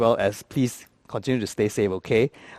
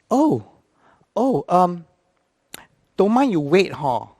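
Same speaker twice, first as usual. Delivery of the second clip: hesitant, stressed Singlish attendant; flustered Singlish; 2 semitones higher than usual. Retold or imitated. Stressed attendant asking passenger to wait, flustered Singlish. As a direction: stall for time in Singlish. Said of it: "In Singlish means".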